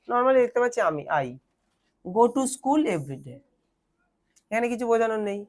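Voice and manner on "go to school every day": each word spaced out slowly for copying; slow teacher dictation. Shown as a demonstration. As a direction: dictate it slowly so they can write. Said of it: "teacher dictating slowly".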